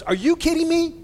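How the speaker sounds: high, loud indignant cry; quoting an indignant newscaster; indignant outburst. Retold or imitated. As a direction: let the outrage burst out of you. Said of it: "she goes".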